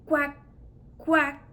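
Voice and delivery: duck quack. Shown as a demonstration. Clinician presents the duck sound to the child, quacking.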